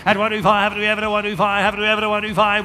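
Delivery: auctioneer. Acted. Auction bid calling chant.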